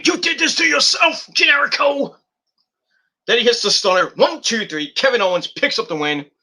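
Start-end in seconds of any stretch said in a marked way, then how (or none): 0.0-2.2 mock gloating taunt; taunting Sammy. Wrestler taunting beaten rival, mock gloating. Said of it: "Then tells Sammy".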